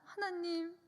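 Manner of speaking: retold plea, mildly mortified; ashamed prayer. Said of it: "너무 창피하고 부끄러워서".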